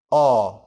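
"O" held as a long open vowel; long o sound. Shown as a demonstration. Teacher models the long o of north, drawn out. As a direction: draw out the vowel in "O". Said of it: "đó là âm o dài".

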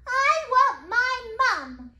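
put-on loud, high child's cry, drawn out; little princess wailing. A narrator's reading. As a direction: cry out slowly for Mum, full volume. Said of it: "cried the little princess".

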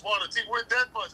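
pitched high, amazed and naive; imitating the seller's amazement at the price; mock surprised shop guy. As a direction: play the clueless seller, wide-eyed. Mocking the shop guy's surprise.

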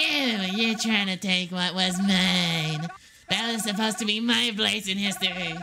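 Hillary voice. Acted. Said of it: "your Hillary voice".

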